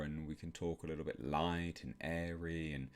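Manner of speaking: airy soft voice demo; light and airy. Shown as a demonstration. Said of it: "I can lighten my voice a little bit more".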